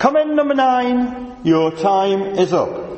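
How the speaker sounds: acted, high bellowing call as if over loudspeaker. Recalling the man who called in hired boats, the speaker retells his loudspeaker bellow. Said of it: "he would bellow through his loudspeaker".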